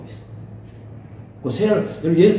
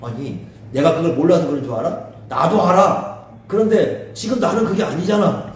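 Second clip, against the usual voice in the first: mildly angry protest. Acted. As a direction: push back at preachy friends. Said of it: "욥은 더 화가 나는 거야". (답답해서 살짝 화내며 반박하듯)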